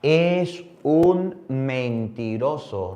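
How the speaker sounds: "es un mentiroso" lento, cada sílaba marcada; sentencia lenta. Shown as a demonstration. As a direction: dictar la sentencia despacio. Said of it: "dice la Biblia". ("mentiroso" dicho muy despacio y grave)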